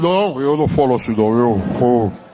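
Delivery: put-on disguised voice. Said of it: "mudou a voz".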